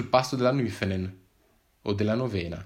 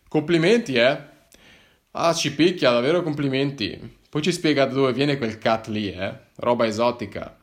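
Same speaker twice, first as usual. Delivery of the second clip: reprimanding; 2 semitones higher, 4 dB louder than usual. Acted. Policeman rebukes the hiker over exotic drugs, sarcastic scolding. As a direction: scold him with biting sarcasm. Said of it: "mi redarguì il poliziotto".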